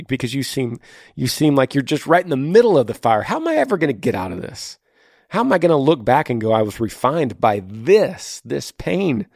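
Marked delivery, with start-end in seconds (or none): 3.2-9.3 higher, pleading questions, acted; voiced despair. Host voices Tabitha in the middle of the fire, despairing. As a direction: plead as someone stuck in the pain. Voicing listener's despair amid suffering.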